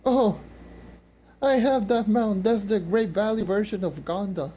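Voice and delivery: sudden high excited gasp; surprised. Real, not acted. Spots a rare mount.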